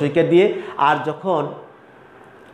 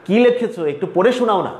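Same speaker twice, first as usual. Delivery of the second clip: curious question; 4 semitones higher than usual. Shown as a demonstration. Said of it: "আমার যদি বলি".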